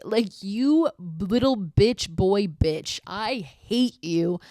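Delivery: slow, drawn-out whiny rant; a lightly voiced bratty tantrum; mock tantrum. Kyle rages at the girls through the door, slow mock whine.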